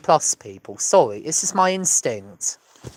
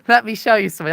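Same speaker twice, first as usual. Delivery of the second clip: Fire Marshal Bill impression; 5 semitones higher, 4 dB louder, faster than usual. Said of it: "reference to Fire Marshal Bill".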